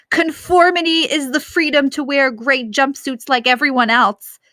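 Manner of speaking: pompous mocking dictator speech; hammed-up mock dictator; impersonating Loving Leader. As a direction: lampoon the leader's preaching. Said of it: "doing my best impersonation".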